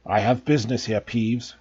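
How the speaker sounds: low, rough croak. Acted. Harry impersonating the Baron to Peeves, a low croak. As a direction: croak it out like a ghostly lord. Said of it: "croaked Harry".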